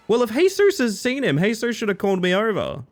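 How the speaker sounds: high, loud, playful protest; hammed-up indignant complaint; mock indignation. Streamer jokes with chat about Jesus, mock indignant.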